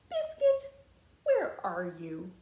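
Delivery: calling out. Acted. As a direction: call the puppy's name to find him. Calling for the lost puppy.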